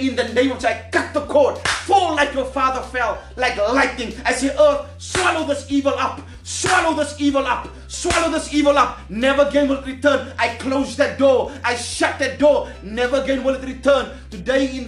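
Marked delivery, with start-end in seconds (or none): 4.5-10.3 commanding shout. Acted. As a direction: rebuke evil with a commanding cry. Prophet commanding evil away.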